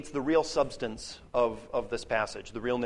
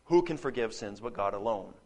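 lower, knowing rhetorical tone; rhetorical question; 4 semitones lower than usual. Shown as a demonstration. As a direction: ask it as if everyone knows. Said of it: "a rhetorical question".

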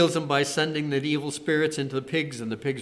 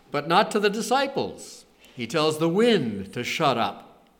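usual speaking voice

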